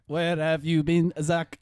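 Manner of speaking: slow mock Scottish accent; drawn-out Scottish doll voice. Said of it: "Oh, it was Scottish though".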